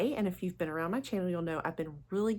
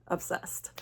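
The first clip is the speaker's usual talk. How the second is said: whisper; 5 dB quieter than usual. Real, not acted. Confessing her perfume obsession.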